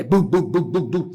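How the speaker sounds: thumping "bum" sounds in a steady run; imitated heartbeat. Host showing co-host a racing heart, imitated heartbeat. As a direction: mimic a pounding heart. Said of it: "Os batimentos cardíacos".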